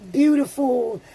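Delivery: emotional. Real, not acted. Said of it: "I'm getting emotional".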